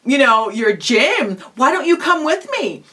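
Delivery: breezy, casual ask; casual invitation. Shown as a demonstration. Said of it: "Well, very casually say".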